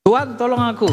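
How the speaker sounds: an urgent plea to the teacher; pleading call. Shown as a demonstration. Disciple in trouble calls to his teacher, pleading. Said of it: "panggil saja gurunya".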